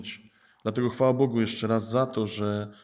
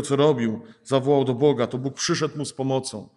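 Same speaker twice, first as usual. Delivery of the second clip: impassioned preaching; 2 semitones higher, 4 dB louder than usual. Real, not acted. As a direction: preach it hard, rising to a call. Preacher builds to impassioned climax.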